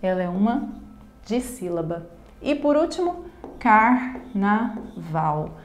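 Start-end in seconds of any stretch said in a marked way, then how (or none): 3.6-5.5 "carnaval" in three slow beats: car, na, val; syllable by syllable. Shown as a demonstration. Teacher showing three syllables to students, syllable by syllable. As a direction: pause after each syllable of "carnaval". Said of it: "Uma palavra composta por três sílabas".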